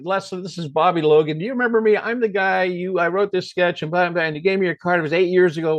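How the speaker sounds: nervous stammered voicemail, retold; stammering. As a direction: stumble lightly through a rambling message. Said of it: "And I stammer, whatever I say".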